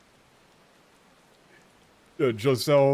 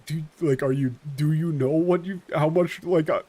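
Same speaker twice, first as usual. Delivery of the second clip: annoyed complaint; 3 semitones higher than usual. Retold or imitated. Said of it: "He's just talking to you like".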